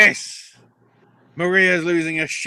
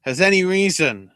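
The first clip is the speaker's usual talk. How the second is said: priest; 4 semitones higher, 4 dB louder than usual. Retold or imitated. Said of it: "the priest goes".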